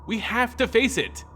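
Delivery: rising urgency. Acted. Young Sorin pleads his case.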